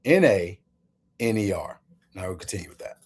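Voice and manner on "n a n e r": "N A" then "N E R" spaced with a pause between; deliberate spelling contrast; spelled-out contrast. Shown as a demonstration. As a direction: set "N A" against "N E R" letter by letter. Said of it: "I want you to pick up on it".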